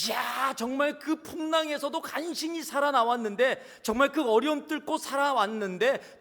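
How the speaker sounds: loud, high, excited villager voice; islanders gossiping. Acted. Preacher voicing islanders judging Paul, loud and high. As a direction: call it out like gossiping islanders sure he's a murderer. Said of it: "사람들이 이야기하는 겁니다".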